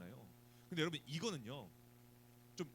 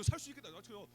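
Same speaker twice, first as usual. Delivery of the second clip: high, loud cry of relief; drowning man seeing rescuers, overjoyed; relieved joy; 6 semitones higher, 9 dB louder than usual. Retold or imitated. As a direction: burst out as rescue arrives. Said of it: "이 생각 들 거 아니에요".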